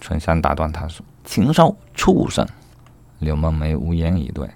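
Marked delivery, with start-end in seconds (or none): 1.2-2.5 high, loud, outraged insults; cursing angrily. Acted. 春香 cutting off 柳梦梅 to curse him, angry. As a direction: hurl each insult at a much raised pitch. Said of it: "春香又骂道".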